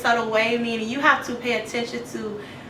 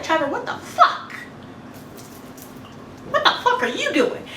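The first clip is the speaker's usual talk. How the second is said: laughing confrontation; 5 semitones higher than usual. Retold or imitated.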